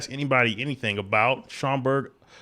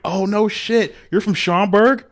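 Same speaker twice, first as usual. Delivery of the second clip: mock surprise; 8 semitones higher, 4 dB louder, slower than usual. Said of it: "And I'm like".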